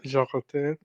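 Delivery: "Joroté" with a soft French zh at the start; tentative French "Joroté"; French pronunciation. Shown as a demonstration. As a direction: say "Joroté" the French way, as zho-ko-TAY. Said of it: "How do I pronounce that in French".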